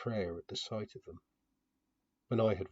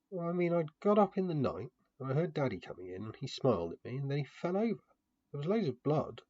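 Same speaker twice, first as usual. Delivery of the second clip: put-on frightened little girl; 6 semitones higher than usual. A narrator's reading. Frightened child recounts father's death.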